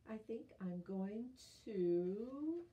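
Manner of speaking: slow build into a sneeze; about to sneeze. Acted. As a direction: draw it out before sneezing.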